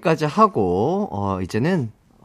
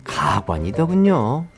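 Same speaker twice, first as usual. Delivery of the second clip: story narration. Acted. Reads listener story over music.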